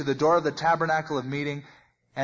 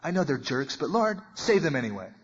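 interceding prayer; 2 semitones lower than usual. Retold or imitated. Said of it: "Remember before he was interceding".

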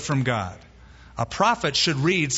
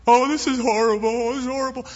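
higher, hammed-up whine of despair; mock whining moan; 8 semitones higher, faster than usual. Preacher mocks people who moan instead of mourn, in a higher whine. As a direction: whine like a self-pitying complainer. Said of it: "some people confuse moaning with mourning".

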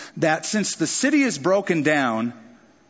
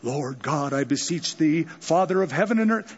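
pompous prayer. Pretend. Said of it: "It was like, what".

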